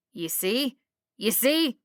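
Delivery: rising to a high, loud cry; agitated shouting. A narrator's reading. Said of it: "Archibald shouted".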